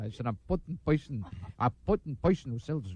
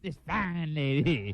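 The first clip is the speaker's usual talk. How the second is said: slow mocking echo; slower than usual. Real, not acted. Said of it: "What fine lady will you be giving".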